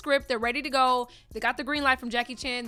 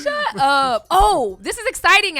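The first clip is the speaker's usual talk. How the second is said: put-on Valley Girl voice; 6 semitones higher, 11 dB louder, slower than usual. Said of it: "I have to go my Valley Girl voice".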